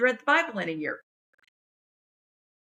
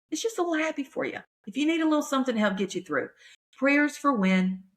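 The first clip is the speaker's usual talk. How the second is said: TV voice; 4 semitones higher than usual. Shown as a demonstration. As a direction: sell the podcast name like a TV promo. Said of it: "just me doing my T V voice".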